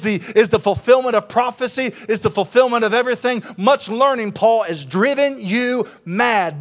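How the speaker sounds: mock-furious tirade, slowing at the end; mad, scornful. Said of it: "He is mad at Paul".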